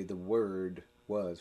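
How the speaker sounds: slow, each word weighted, Word was; slow emphatic reading. Shown as a demonstration. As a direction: lean on "The Word was." slowly and deliberately. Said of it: "Or we could say".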